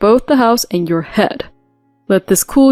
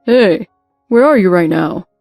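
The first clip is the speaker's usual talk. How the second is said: louder, brusque phone call; 5 dB louder than usual. Acted. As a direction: bark it down the phone. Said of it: "The volume on the phone was so loud".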